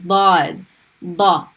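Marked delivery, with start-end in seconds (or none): 1.2-1.5 da with tongue pressed behind the teeth; heavy emphatic da. Shown as a demonstration. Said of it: "heavy D sound".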